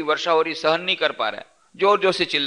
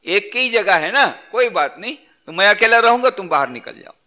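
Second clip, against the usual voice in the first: higher and louder, smugly dismissive; smug camel; 6 semitones higher, 3 dB louder than usual. Acted. Camel tells the Arab to get out, higher, louder and smug. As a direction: shove him out without a care.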